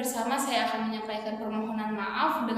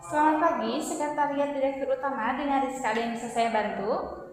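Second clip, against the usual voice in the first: customer service voice; 2 semitones higher than usual. Acted. Secretary answers phone formally.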